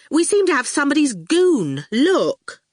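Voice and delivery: high, anxious student voice; nervous Fifi. A narrator's reading. Student greets Howard anxiously, high nervous voice. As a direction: fret it out in a high voice.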